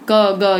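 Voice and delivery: क, ग said short with little air; quick, unaspirated. Shown as a demonstration. Teacher contrasts quick alpapran sounds, क, ग short. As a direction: release क and ग quickly, no puff. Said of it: "ये जल्दी जल्दी हो जाते हैं".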